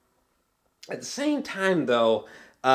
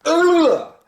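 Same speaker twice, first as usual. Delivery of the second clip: stretching groan; 8 dB louder than usual. Real, not acted. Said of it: "ugh, crack".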